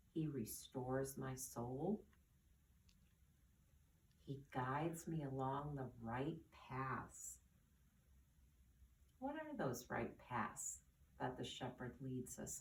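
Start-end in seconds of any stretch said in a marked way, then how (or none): 0.1-7.4 slow scripture quote. Acted. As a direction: let each word settle, gently. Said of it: "words that I read".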